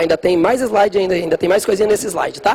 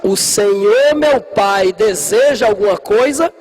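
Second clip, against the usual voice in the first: put-on formal old-style speech; slower than usual. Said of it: "você tinha que falar assim".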